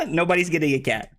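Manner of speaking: laughing through "Nobody's getting a cat"; giggling at his own joke, "Nobody's getting a cat" spilling out with laughter. Real, not acted. Streamer joking about third place prize, laughing.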